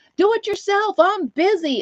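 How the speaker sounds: put-on thick Italian accent, very high-pitched yell. Retelling how the shop owner's wife answered him: heavy italian accent. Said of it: "in this heavy Italian".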